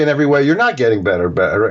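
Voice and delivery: NOT stressed, quick, mocking the affirmation. Shown as a demonstration. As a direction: lean on not getting better. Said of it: "your subconscious knows".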